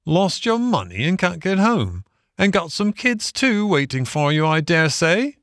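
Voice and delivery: high, lilting workman's voice; reflective engine driver. A narrator's reading. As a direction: muse sympathetically on a stranger's plight.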